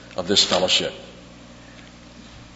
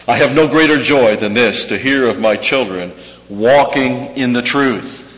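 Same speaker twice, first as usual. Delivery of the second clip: proclaimed scripture; 3 semitones higher, 5 dB louder than usual. Acted. Quoting scripture from Third John.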